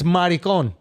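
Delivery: maricon as "mah-ree-KOHN"; Spanish-style open vowels in maricon; mock correct pronunciation. Shown as a demonstration. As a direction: offer maricon as if it were the proper pronunciation. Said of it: "I think the actual pronunciation".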